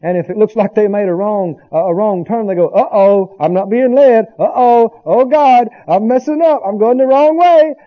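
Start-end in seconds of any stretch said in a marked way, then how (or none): 2.7-7.7 panicky believer. Retold or imitated. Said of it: "And they get in fear".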